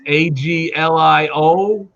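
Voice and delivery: slow letter-by-letter spelling. Shown as a demonstration. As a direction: spell it out slowly for them. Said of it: "would know how to say this".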